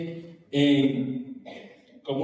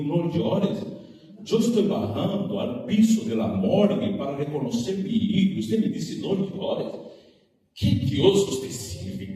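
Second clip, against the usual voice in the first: grieving mother; 4 semitones higher than usual. Retold or imitated. Grieving mother confronts doctor.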